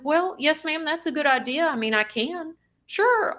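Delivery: sweet as pie to hide the anger; fake happy. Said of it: "put on this happy face".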